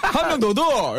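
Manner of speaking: very high Gyeongsang drink order; right Gyeongsang intonation. Shown as a demonstration. Guest shows the proper way to order, Gyeongsang dialect. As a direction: sing out the Gyeongsang tune, high-pitched. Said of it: "이렇게 하는 거죠".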